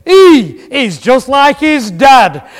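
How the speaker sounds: put-on a small boy blurting in broad Yorkshire. Wise man boy to the baby, in loud broad Yorkshire. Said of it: "broad Yorkshire accent".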